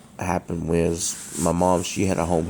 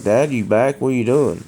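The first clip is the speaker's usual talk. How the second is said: mild call to dad, pitched higher; retold calling out; 5 semitones higher, 4 dB louder than usual. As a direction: re-enact calling through the house, lightly raised.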